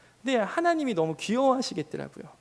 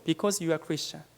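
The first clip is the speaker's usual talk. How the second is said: slow, weighty quote; 4 semitones lower, much slower than usual. Retold or imitated. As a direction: let each word sink in slowly. Quoting elderly missionary, slow. (천천히 조용하게 또박또박)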